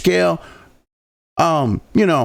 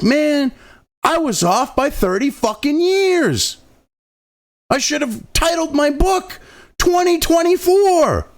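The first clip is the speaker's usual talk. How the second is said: imitating George Orwell; 7 semitones higher, slower than usual. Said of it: "George Orwell, okay, would be like".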